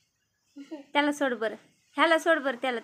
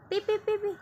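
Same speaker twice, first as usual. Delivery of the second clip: coaxing call; 6 semitones higher, 5 dB quieter than usual. Real, not acted. Coaxing cats to drink.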